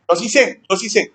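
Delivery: mock a cocky five-year-old insisting; mocking child. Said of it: "niños de cinco años me lo han dicho".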